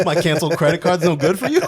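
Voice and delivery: high, laughing mock indignation; mocking Connie's offended hustle; mock outrage. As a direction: scoff it through a laugh. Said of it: "Connie's mock outrage".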